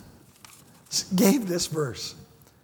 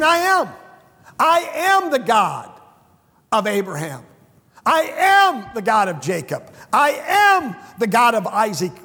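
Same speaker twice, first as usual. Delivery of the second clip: booming proclamation; 3 dB louder than usual. Acted. Preacher voicing God to the Sadducees, booming proclamation.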